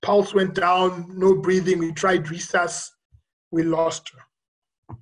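slow, halting delivery of bad news; grave retold report. Nurse tells the doctor the patient has died, grave and slow. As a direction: break it slowly, phrase by phrase.

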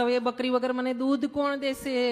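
hammed-up lament of a sadhu over his dead goat; mildly mock-wail the loss. Sadhu who preached no tears now mock-wailing over his dead goat. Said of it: "બાંગ પોકારીને રડવા બેઠા".

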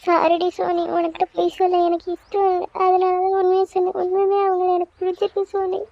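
put-on a girl confesses to her best friend while crying. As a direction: plead through sobs to her friend. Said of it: "அழாத".

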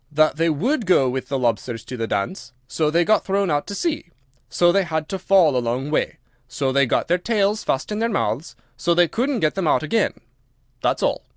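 emphatic creature voice with punched words; Gryphon, brisk. Acted. Gryphon explains the whiting to Alice, brisk and emphatic. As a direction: lay it out briskly and firmly.

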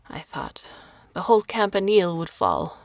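put-on old woman shouting to Carlo over the roaring wind. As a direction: shout it so he hears through the storm. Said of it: "she shouted at him over the whistle of the wind".

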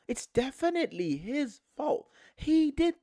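high-pitched imitation of a finger-pointer; mock accusing. Fan imitating fans hunting a culprit, mock accusing.

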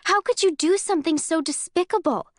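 furious, trembling accusation; shaking outrage. Acted. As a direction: voice shaking with disgust. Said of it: "My voice is shaking now".

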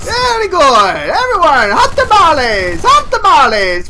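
high, exuberant mock-Italian accent. Gamer hawking hot tamales mid-game, hammed-up Italian accent. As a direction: ham up an Italian street-seller accent. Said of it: "took on Italian accent".

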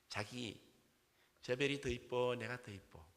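lightly voiced coy Seoul bride; Seoul accent bride. Seoul bride asks her groom on Jeju honeymoon, lightly acted Seoul accent. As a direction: ask sweetly in Seoul speech. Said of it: "서울 부부, 경상도 부부요".

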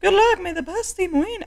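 very high mock Irish announcer; terrible Irish accent. Game host explaining the button, terrible Irish accent. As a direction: give instructions in a squeaky fake Irish accent. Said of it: "my terrible Irish accent".

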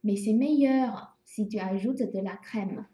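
slow, clear French repeated; teacher's slow recap; slow model sentence. Shown as a demonstration. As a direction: repeat it slowly at the end. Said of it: "C'est bon".

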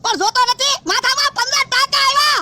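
slow, stretched words into a cackle; forced laughing. Acted. Patient showing fifteen stitches while ordered to laugh, forced laughing. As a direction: complain through put-on laughter. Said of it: "તો પણ દાંત હું લેવા કાઢે?".

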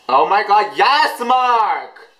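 high, rising fan squeal; thrilled high-pitched outburst; excited cheering. Real, not acted. Excited reaction to the video.

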